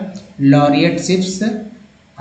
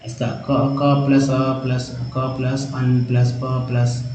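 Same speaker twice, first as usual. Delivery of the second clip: slow spelling out, softer; 3 semitones lower, 4 dB quieter, slower than usual. Shown as a demonstration. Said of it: "तोड़ जोड़ जोड़ के लिखिएगा".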